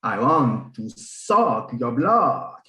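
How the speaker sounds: slow, drawn-out vampire voice. Pretend. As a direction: play a hammy Dracula. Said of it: "someone do a vampire".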